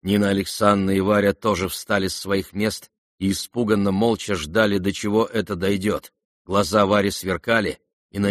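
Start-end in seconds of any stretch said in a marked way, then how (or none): none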